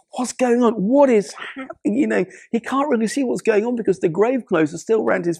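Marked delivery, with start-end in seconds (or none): 0.1-2.0 high, bewildered questions; confused Lazarus. Retold or imitated. Lazarus stumbling out wrapped in grave clothes, bewildered. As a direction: ask it blinking, lost and puzzled.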